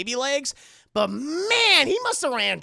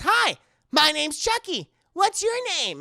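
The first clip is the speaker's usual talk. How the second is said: doll voice; 8 semitones higher, 5 dB louder than usual. Retold or imitated. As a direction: play the sweet talking doll. Retold doll greeting.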